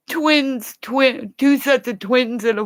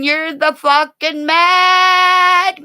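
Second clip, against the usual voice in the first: angry outburst; 5 semitones higher, 5 dB louder, slower than usual. Real, not acted. Insulting Benny Keys.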